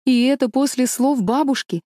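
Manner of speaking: ordinary delivery, nothing marked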